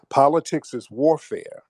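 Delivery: hushed whisper. Real, not acted. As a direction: whisper it like a secret. Pointed remark to the audience.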